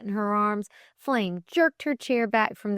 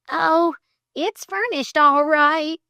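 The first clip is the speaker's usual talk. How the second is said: high, loud quivering protest; 10 semitones higher, 7 dB louder than usual. A narrator's reading. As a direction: answer in a high, upset voice. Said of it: "quivered Flame".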